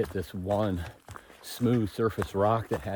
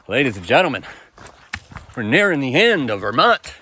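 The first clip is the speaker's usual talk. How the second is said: louder, swooping showman's announcement; playful announcer; 4 semitones higher, 9 dB louder than usual. Pretend. Hiker telling viewers Vermont is nearly over, mock-grand announcement. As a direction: announce it grandly, pitch rising and falling.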